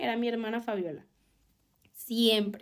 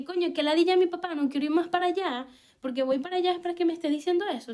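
higher, fast, fed-up whining; exasperated complaint; 5 semitones higher than usual. Retold or imitated. Teen daughter whining to her mom about her dad, fed up and fast. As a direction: vent it like a teen sick of it.

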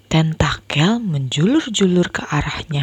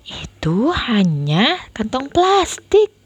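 gentle reassurance; 5 semitones higher, slower than usual. Acted. Sister calms brother.

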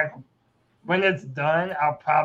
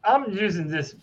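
robot voice; 5 dB quieter than usual. Real, not acted. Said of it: "You sound far away from the microphone".

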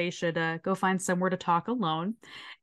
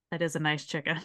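grudging admiration; 4 semitones lower, 6 dB quieter, faster than usual. Retold or imitated. Teacher admiring the offered chicken.

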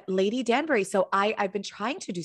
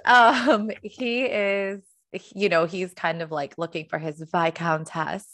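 put-on British accent; slower than usual. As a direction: put on a light posh British accent for fun. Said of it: "I'm gonna try not to be annoying with the accents".

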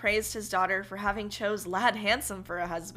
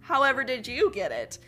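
amazed; 5 semitones higher, 6 dB louder than usual. Acted. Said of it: "beside himself with amazement".

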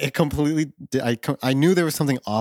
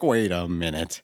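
lowered cartoon dad voice; Homer; 5 semitones lower, slower than usual. Cartoon dad growing suspicious, lightly imitated. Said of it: "And Homer's like".

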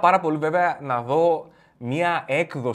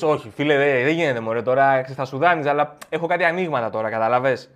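evasive refusal; 2 semitones lower, 4 dB louder than usual. Acted. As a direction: brush off the friend with a phony excuse. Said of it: "Και του λες".

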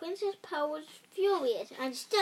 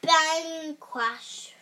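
loud bang; 3 semitones higher, 8 dB louder than usual. A narrator's reading. Sound effect words in story.

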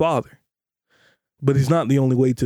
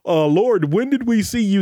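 mock innocence; 5 semitones higher than usual. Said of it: "go on that great judgment day and say".

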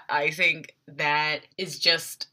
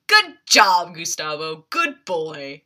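praising a dog; 5 dB louder, slower than usual. Retold or imitated. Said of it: "treating Gustavo like a dog".

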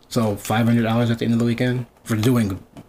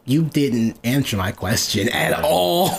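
pointed; slower than usual. Retold or imitated. Retold pointed reply to dodging coworker.

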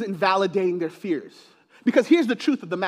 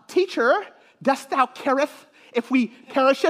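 mock old English Bible reading, timid; hammed-up meek disciple, halting and polite; meek and mild; 3 semitones higher than usual. Shown as a demonstration. Preacher parodying a flat King James reading, meek and mild. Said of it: "all meek and mild".

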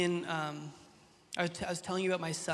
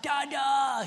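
imitated toddler; 7 semitones higher, 4 dB louder than usual. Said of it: "He grunts all the time".

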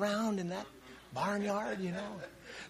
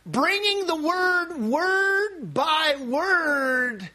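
bringing the word, word, by, word dragged out slowly; 4 semitones higher, much slower than usual. Real, not acted. Preaching to Brother Wade, slow emphatic word by word. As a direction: lean hard on every word.

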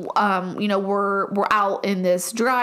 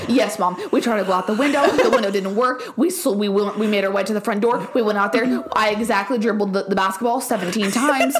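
mock-earnest rapid confession; over-detailed confession. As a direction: spill every detail like a good girl. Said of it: "As I'm in there".

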